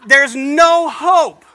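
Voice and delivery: slow, loud and high through laughter; cracking up while mock-lamenting; laughing. Real, not acted. Acting out his thug life moment.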